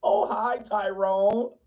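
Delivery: lightly voiced uncomfortable greeting; mock awkward politeness; awkward polite white. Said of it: "they all uncomfortable".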